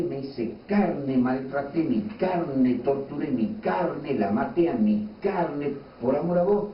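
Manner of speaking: a wounded God pleading his love, slowly. Pretend. God pleads with the complaining brother, high and slow. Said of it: "viene Dios y le dice".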